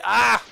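short, high, loud "ah!"; startled yelp. Real, not acted. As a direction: yelp in sudden alarm. Startled by the game.

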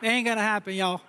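light Southern accent. Shown as a demonstration. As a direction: say it with a Southern twang. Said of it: "I can do Southern".

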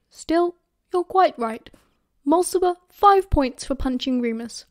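lightly voiced teacher scolding his class; a hint of a schoolmaster's reproof; reproving professor. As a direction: lecture the pupils, mildly stern.

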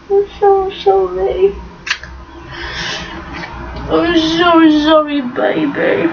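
real tearful sobbing, voice breaking between words; crying over the dog. Real, not acted. Owner tearfully apologising to her dog for leaving, sobbing. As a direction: let the tears take over as you say sorry to her. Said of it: "Oh, I'm gonna cry".

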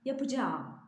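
yapacağım as yapıcaam, long a at the end; lengthened a. Shown as a demonstration. Teacher models the long a in yapıcaam. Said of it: "iki A varmış gibi".

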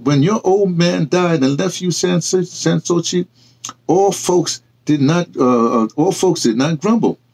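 a touch of stern reproach. Acted. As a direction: drive the hard truth home. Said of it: "Tyler said sternly".

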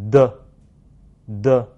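的 as French "de", vocal cords buzzing; tongue tip on upper teeth, then a voiced burst on 的; 的 with a fully voiced French d; voiced consonant. Shown as a demonstration. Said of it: "声带也是要震动的".

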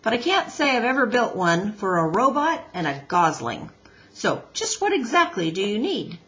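lightly voiced seasoned builder; a hint of a gruff old hand; Mister Beaver.

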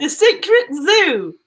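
slow Aussie detective reveal; put-on Australian accent, drawn out; name it slowly in an Australian accent. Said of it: "time in that Australian accent".

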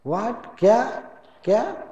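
mock-deaf rising what; feigned not hearing. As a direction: pretend you can't hear the caller. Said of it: "तो वो कहता है".

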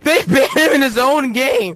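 said through laughter, slow; amused disbelief; laughing. Real, not acted. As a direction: laugh while saying it.

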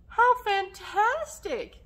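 high, slow, delighted exclaim; excited cheer. Acted. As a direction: sell the craft with delight. Cheering the craft.

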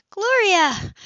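high, loud warning cry of a name; sharp call. A narrator's reading. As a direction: snap her name to stop her. Sybil stops sister's outburst.

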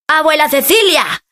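llamada aguda y alegre, sin gritar fuerte; llama contento a su abuela; grito alegre. Acted. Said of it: "grita Andrés". (grito alegre suave)

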